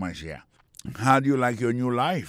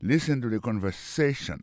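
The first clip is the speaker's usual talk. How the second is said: "conversation" stressed on SA; stress on penultimate syllable. Shown as a demonstration. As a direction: lean on the next-to-last syllable of "conversation". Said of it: "accent tombé sur avant-dernière syllabe là". (aksan sou avan-dènye silab "conversation")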